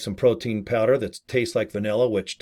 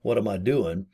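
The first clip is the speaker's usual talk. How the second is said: silly oops voice; 4 dB quieter than usual. Retold or imitated. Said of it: "accidentally going".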